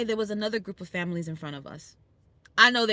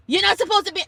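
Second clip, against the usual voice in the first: higher and louder, scolding; imitating the rude cyclist, louder; mock cyclist; 9 semitones higher, 8 dB louder, faster than usual. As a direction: snap at the walkers. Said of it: "I was like".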